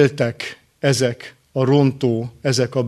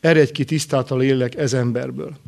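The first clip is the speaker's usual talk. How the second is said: composed, unhurried quoted command; calm command. Retold or imitated. (nyugodtan, higgadtan idézett parancs)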